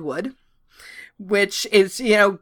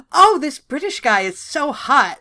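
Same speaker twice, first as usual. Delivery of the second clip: put-on gushing teen crush; 6 semitones higher, 3 dB louder than usual. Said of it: "I was like".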